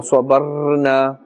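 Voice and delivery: swabarna with the r held too long; ra wrongly stretched. Shown as a demonstration. Teacher shows what to avoid, over-stretched ra in swabarna. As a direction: drag out the r in swabarna. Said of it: "Try not to stretch the sound of the ra".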